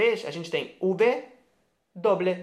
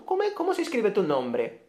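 high questioning voice; asking a name; 4 semitones higher than usual. Acted. Student imitating a Spanish speaker asking how a name is spelled. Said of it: "acting asking someone's name".

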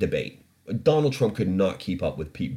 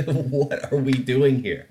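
slow, laughing through "What are we doing here?"; 6 semitones higher, 3 dB louder, slower than usual. Real, not acted. Host giving up on the news, laughing. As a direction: laugh out the question in disbelief. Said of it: "repeated laughing".

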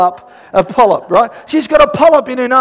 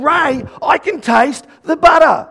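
raised-pitch call to Ray about the BUTTER; imitated excited announcement; 4 semitones higher than usual. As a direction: re-enact her calling "butter" news to her husband. Retold announcement called to her husband.

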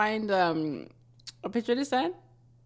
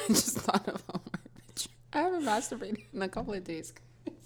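hushed whisper so the parents at home can't hear; whispering a confession with parents home; 11 dB quieter than usual. Real, not acted. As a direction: drop to a secret whisper. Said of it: "My parents are home".

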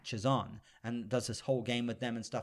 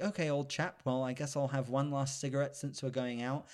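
lightly put-on British accent, a touch quieter; 4 dB quieter than usual. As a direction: imitate a British film officer, lightly. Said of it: "gets his beautiful British accent again".

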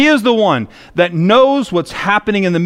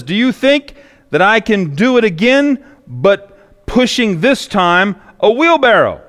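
Blondin challenges; 5 semitones higher than usual. Acted. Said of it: "he turns to the crowd once more and says".

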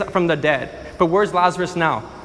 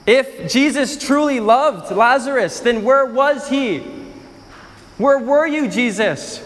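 pressing accusation; 5 semitones higher than usual. Acted. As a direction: repeat it harder, accusing. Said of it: "Some of them responded like this".

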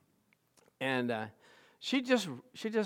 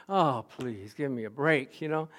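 fed up; 4 semitones lower than usual. Retold or imitated. Fed up with sweet hygienist.

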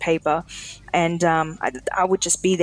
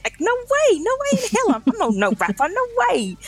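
high-pitched protest. Retold or imitated. Protesting she's no rapper.

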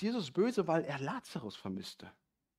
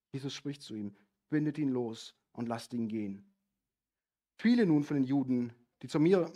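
measured Bible reading voice; scripture reading; 3 dB louder than usual. Acted. Preacher reading the Lazarus passage to the congregation, solemnly. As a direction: read the passage with solemn weight.

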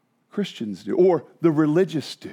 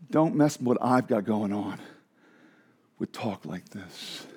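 defensive dismissal; 11 semitones lower, 7 dB quieter than usual. Retold or imitated. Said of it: "one of the most common responses".

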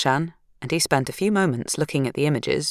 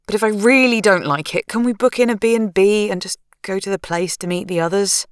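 higher, tense wife's voice; anxious young woman; 6 semitones higher than usual. Acted. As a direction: voice her as high-strung and rattled. Narrator voicing Sarah.

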